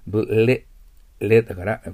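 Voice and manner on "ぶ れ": ぶ、れ broken in two, loud, with an English L in れ; clear English L. Shown as a demonstration. Teacher drilling the L sound, ぶ、れ loud and separated. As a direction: punch out ぶ、れ, tongue tip on the upper teeth for the L. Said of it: "Lの発音ちゃんと出さないといけませんよ".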